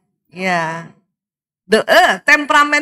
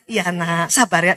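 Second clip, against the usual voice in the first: put-on softer, gentle mother calming her baby; tender hush; 7 semitones lower, 4 dB quieter than usual. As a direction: coax the little one softly to be patient. Mother hushing baby to be patient.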